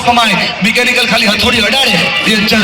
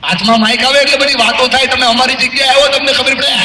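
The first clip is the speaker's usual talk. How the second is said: a lightly raised, complaining student voice; voicing a student; 3 semitones higher than usual. Speaker voicing a student's exam complaints to the teacher, lightly raised grumble. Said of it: "તમને થાય sir".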